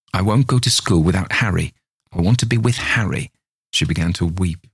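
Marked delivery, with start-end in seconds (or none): 0.1-3.3 lightly voiced child, pleading and stubborn; a hint of a child about to cry; sulky little girl. Little girl refuses school without Harry, mild whine.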